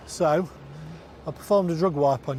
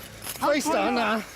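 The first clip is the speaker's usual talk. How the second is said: slow forceful command; 9 semitones higher, much slower than usual. Real, not acted. Officer pinning suspect down.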